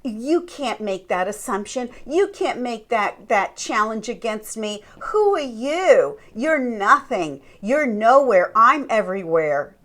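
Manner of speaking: mock dismissive put-down; belittling. Narcissist belittling the one who challenged them, mock scornful. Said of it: "they'll belittle you and say".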